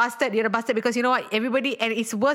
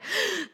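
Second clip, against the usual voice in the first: mock gasp; 10 semitones higher, 5 dB quieter than usual. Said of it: "You're like".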